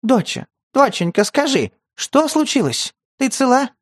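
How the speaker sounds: high, frightened grandmother pleading; frightened, near tears. A narrator's reading. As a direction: ask in panic, almost crying. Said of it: "бабушка сама едва не плакала".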